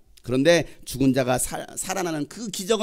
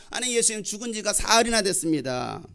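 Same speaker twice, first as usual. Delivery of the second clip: higher-pitched, mildly whiny objection; protesting; 4 semitones higher than usual. Acted. Martha tells Jesus it is too late, protesting. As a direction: object as the doubting sister.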